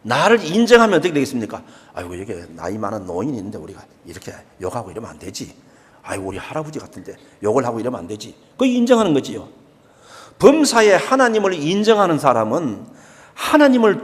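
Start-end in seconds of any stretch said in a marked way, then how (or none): 1.9-8.3 quick, much softer muttered aside of a respectful youth; lightly voiced young people catching themselves; imitating polite youngsters. Pastor voicing polite young bus riders to the congregation, quick and soft.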